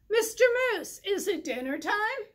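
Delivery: high, quick rabbit voice; a bouncy small rabbit asking about dinner; eager little rabbit. Acted. Rabbit voiced in children's story.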